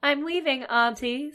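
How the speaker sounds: put-on high voice, playing the niece; cat posing as girl. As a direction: answer as a cat passing for the niece. Cat poses as the little girl.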